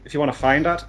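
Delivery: lightly put-on Northern Irish accent. Host plugging his YouTube and Twitter, in an impromptu Northern Irish accent. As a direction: slip into a mock Northern Irish lilt. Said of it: "I'm going for a Northern Irish accent".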